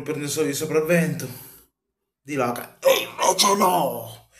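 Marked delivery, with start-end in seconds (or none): 2.8-4.3 slow, loud triumphant taunt; enfatico lento. Real, not acted. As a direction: drag it out gloating. Tifoso esulta, ripete la frase. (esultanza lenta e beffarda)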